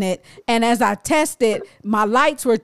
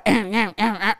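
imitated machine stutter; 3 semitones lower, 4 dB quieter, faster than usual. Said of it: "it started going".

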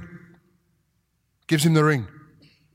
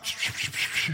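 soft unvoiced shushing; tender whispered shh; hushing whisper; 10 dB quieter, slower than usual. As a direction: hush him gently like a father. Father hushing his returning son.

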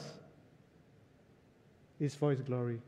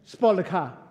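louder sharp mock scolding; upset scolding; 4 dB louder than usual. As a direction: snap it at the boy. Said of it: "my wife got upset with him".

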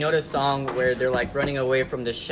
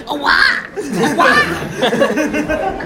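whiny wah cries; mock crying baby; mock whining; 11 semitones higher, 8 dB louder, much slower than usual. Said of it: "you were the one going".

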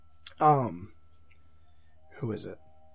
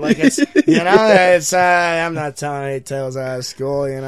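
Norm impression; 6 dB louder than usual. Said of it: "He does it, like, every other word".

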